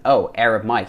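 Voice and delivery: imitated American accent, "Arab" as "Air-ub". Coach copying our friend's video, American accent. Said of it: "He's already sounding American".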